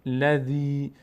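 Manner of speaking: الذی with the final i held; lengthened ya. Shown as a demonstration. Teacher models the madd on ya, lengthened ya. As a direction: intone الذی, holding its last vowel. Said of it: "باید بکشیم یا رو".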